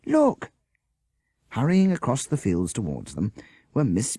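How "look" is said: high, loud, slow shriek of relief. Acted. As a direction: shout it across the fields. Jessica pointing, still shrieking.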